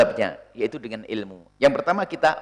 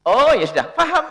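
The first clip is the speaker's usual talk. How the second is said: accepting; 11 semitones higher, 7 dB louder than usual. Shown as a demonstration. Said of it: "Anda kan maklum".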